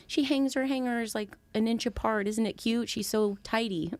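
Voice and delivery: imitating doting parents cooing; mock doting parents. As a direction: gush over her like a proud parent. Parents fondly praising her tidiness.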